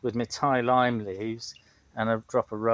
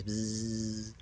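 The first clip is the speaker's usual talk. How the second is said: bee buzzing; 2 semitones lower, 8 dB quieter than usual. Shown as a demonstration. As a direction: hum like a bee. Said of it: "you have to do the bee noise".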